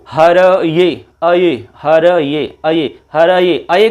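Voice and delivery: हर ये slowly split, then its अये sound alone; sound-spotting demonstration. Shown as a demonstration. Teacher makes students hear the sound, slow demonstration. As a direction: stretch हर ये so that अये stands out. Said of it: "ध्वनि सुनाई देती है".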